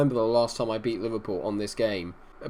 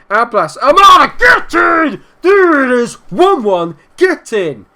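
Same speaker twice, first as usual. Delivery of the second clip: high, very loud, jubilant yelling; goal celebration shout; 10 semitones higher, 11 dB louder, slower than usual. Real, not acted. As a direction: gamer screaming with joy at his team's equaliser, jubilant.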